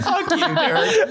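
mock angry yell. Shouted joke curse.

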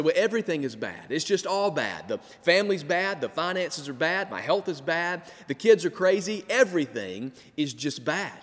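fast, exasperated grumbling list; mock complaining. Preacher imitating a weary believer who wakes up grumbling.

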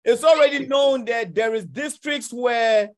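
shouting it out slowly mid-debate; heated shout. Real, not acted. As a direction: drive the point home, raising your voice. Heated argument, pressing his point.

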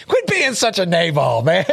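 put-on chuckling through a teen's taunt; a laughing taunt as teenagers mock a friend. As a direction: tease it while laughing. Teens' joke, laughing.

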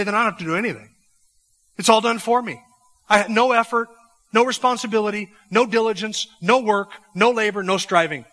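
hammed-up voice of someone who thinks nothing is required; mocking lazy believer. Preacher mocks a lazy professing Christian.

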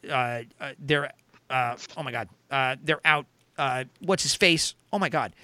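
tripping over words, stammering; stammer, can't get the name out; stuttering. Real, not acted. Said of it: "I'm stuttering".

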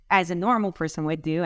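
sarcastic. Real, not acted. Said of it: "and I'm being sarcastic here".

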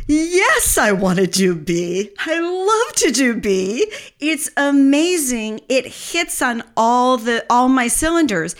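high, drawn-out, gushing delight; enthusiastic yes. Acted. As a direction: answer yourself with slow, soaring enthusiasm. Acts out enthusiastic answer to own question.

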